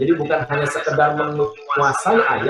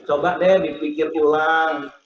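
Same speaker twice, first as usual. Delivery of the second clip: gentle, kind. Shown as a demonstration. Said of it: "itu kan lebih enak kalimatnya".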